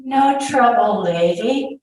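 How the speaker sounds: high, loud opening, dropping on the last word; breezy brush-off. A narrator's reading. Soldier swinging the boy away from his mother, breezy brush-off.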